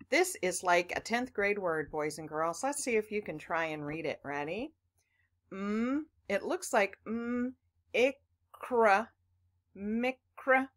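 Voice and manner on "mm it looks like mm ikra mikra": "mikra" sounded out with a short i; short i reading. Shown as a demonstration. Teacher modelling a wrong first try. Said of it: "this is a bit of a tricky word".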